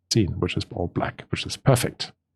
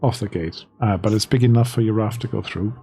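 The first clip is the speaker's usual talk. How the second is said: game master narration. Acted. Game master guides players through the tunnel, storyteller narration. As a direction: carry the players along on the story.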